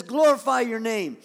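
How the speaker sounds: loud appeal to God; prayerful cry. Acted. Jesus turns to the Lord, loud cry. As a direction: call it up to heaven with force. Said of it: "Now he turns to the Lord".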